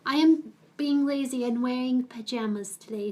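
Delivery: ordinary delivery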